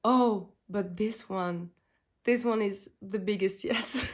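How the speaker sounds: giddy, delighted cooing over a palette; mock-giddy collector picking a favorite; gushing inner voice. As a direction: gush like you just found the one. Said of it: "I was like".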